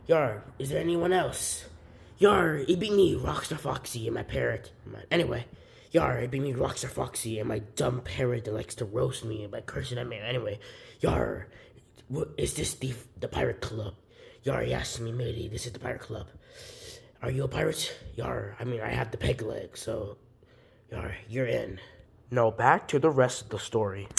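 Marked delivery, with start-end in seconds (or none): 2.2-4.7 a hint of a pirate growl; lightly voiced pirate. Foxy greeting a lost visitor, mild pirate voice. 5.9-10.2 a hint of a pirate growl; lightly voiced pirate. Foxy greeting a lost visitor, mild pirate voice. 11.0-21.8 a hint of a pirate growl; lightly voiced pirate. Foxy greeting a lost visitor, mild pirate voice.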